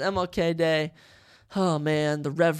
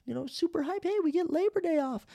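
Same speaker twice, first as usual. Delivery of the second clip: bright excited cheer, pitch up high; hyped cheer; 11 semitones higher than usual. Retold or imitated. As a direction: cheer like a student getting a day off. Excited college student cheering.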